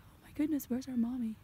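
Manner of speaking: lightly voiced lamb in mock alarm; a touch of a lost baby lamb calling out; mock-worried little lamb; panicked lamb. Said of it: "be like".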